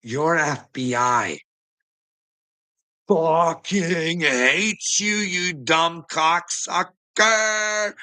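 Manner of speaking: drawn out very slowly, each word hammered; slow emphatic taunt. Real, not acted. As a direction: spell out every word slowly to make it sting. Drawn-out insult at viewer.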